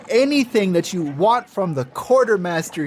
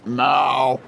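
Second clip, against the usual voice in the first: cat meow; 6 semitones lower than usual. Acted. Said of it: "He sounds like this".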